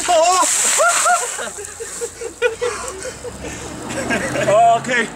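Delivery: sharp cold-shock gasps; in ice cold water. Real, not acted. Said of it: "That is really cold".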